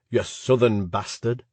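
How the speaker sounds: broad Yorkshire on bastard, slowed; mock-proud Yorkshire bastard; Yorkshire accent. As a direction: lean into the Yorkshire vowels, slowly. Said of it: "He pronounced it bastard, emphasizing his Yorkshire accent".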